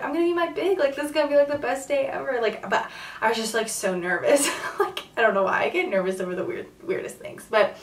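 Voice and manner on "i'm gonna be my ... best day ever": high, eager rush of excitement; bubbly retold excitement; excited inner thought. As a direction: gush like it's the best day ever. Retold excited thought before reveal.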